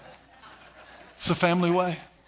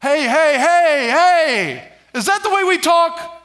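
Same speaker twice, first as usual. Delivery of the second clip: sharp parent calling hey, hey, higher and louder; scolding parent; 6 semitones higher, 3 dB louder than usual. Retold or imitated. Parent correcting the kids over how they talk. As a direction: pull the kids up short. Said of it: "But say".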